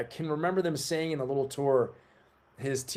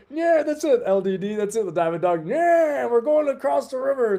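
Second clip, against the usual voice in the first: high, loud hammed-up general voice; imitating George Washington; 9 semitones higher, 5 dB louder than usual. Washington rallying his men across the river, hammed-up high voice. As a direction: pump up the troops in a silly high voice. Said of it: "And he said".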